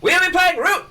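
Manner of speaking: booming announcer voice; fighting game announcer. Shown as a demonstration. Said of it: "Announcer voice".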